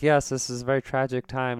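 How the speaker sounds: lightly put-on grieving phone voice; prank phone voice. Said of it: "and I was like".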